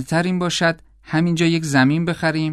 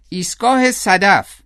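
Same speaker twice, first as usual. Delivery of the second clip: high-pitched, drawn-out call; excited cry; 6 semitones higher, slower than usual. A narrator's reading. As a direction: call it out high and slow, stretching the words. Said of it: "گرچن فریاد زد". (فریاد کشیده با صدای زیر)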